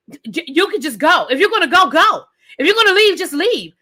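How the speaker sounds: heated rant. Real, not acted. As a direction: tell her off, fed up. Ranting at a cast member.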